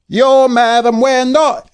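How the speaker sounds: slow, high droning chant; hypnotized chorus. Acted. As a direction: chant it like a dazed crowd. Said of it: "everyone chorused".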